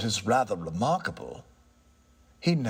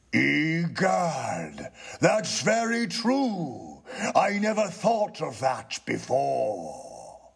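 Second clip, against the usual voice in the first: slow, higher, struck by the idea; a touch of ghost voice; 4 semitones higher, slower than usual. Acted. Ghost, surprised by the tenant's point, agrees slowly. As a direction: muse it as a dawning realisation.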